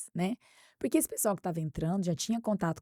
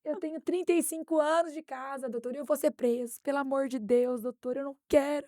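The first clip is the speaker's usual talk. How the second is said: higher, rising mock panic as he begs; mock pleading; 6 semitones higher than usual. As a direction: beg in a hammed-up panic. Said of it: "Mas com uma cara assim".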